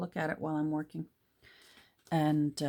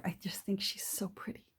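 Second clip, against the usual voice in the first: whisper; 6 dB quieter than usual. Real, not acted. Admiring the pretty lady picture.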